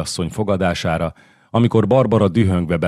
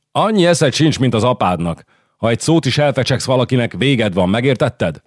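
threatening queen; 5 semitones higher than usual. Acted.

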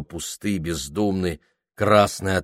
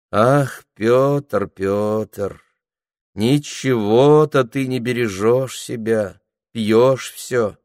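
singsong reproach; 3 semitones higher, slower than usual. A narrator's reading. Anfisa chiding drunk old Pyotr, singsong and reproachful. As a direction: sing the reproach like a tender scolding. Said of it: "проговорила распевно и укорчиво".

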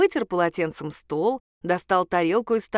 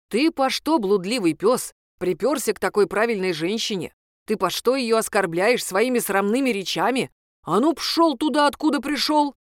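furious scolding; 2 semitones higher than usual. Acted. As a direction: drive the sinner out of the house. Priest chasing the ex-husband out.

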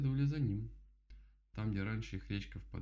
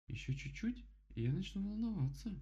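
higher, a hint of worry; frowning bear; 11 semitones higher than usual. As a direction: frown and warn gently. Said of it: "нахмурилась Мишка".

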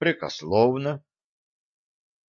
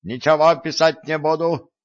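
squeaky protest; 6 semitones higher than usual. A narrator's reading. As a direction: squeak it out in panic. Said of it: "пискнул Гордон".

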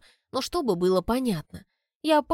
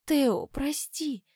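sorry; 6 semitones higher, much slower than usual. A narrator's reading. The girl apologizes to Theo, slow and sad. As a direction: plead for forgiveness gently.

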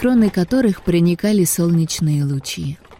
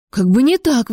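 indignant; 6 semitones higher than usual. Acted. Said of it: "возмутилась Аманда".

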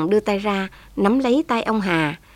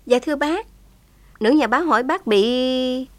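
put-on higher, respectful young woman's voice; polite young woman; 5 semitones higher than usual. Thảo Dân translating for old Hà, higher and polite. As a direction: address the elder gently.

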